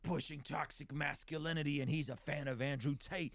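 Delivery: high, slow sneering impression of a critic; mock the outraged online critic; mocking quote. Podcaster mocking critics who call him toxic, sneering. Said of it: "go and say something like".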